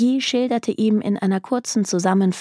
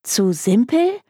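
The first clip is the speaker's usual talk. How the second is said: higher, rising echo question; incredulous; 4 semitones higher than usual. A narrator's reading. Client echoing the detective's refusal, incredulous. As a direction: throw it back in disbelief. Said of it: "Sie starrte ihn fassungslos an".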